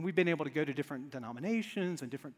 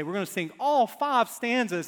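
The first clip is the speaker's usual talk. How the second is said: louder, raised announcing voice; imitated hymn leader; 4 semitones higher, 6 dB louder than usual. Song leader announcing the full hymn, loud and emphatic. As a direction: announce it boldly to the congregation. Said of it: "and they say".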